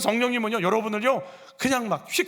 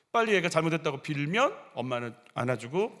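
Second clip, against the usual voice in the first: usual speaking voice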